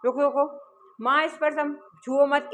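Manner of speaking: lightly acted cross warning; slightly angry. Wife telling husband not to touch the laddus, slightly angry. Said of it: "थोड़ा सा गुस्सा दिखाती हुई".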